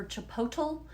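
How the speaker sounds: "chipotle" said as chi-POH-tul; "chipotle" ending like the word total; alternative pronunciation. Shown as a demonstration. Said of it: "Do you say chipotle or chipotle".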